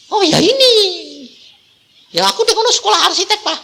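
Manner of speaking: high, fast, laughing rush; excited, laughing girl. Retold or imitated. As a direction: blurt it out giddy and quick.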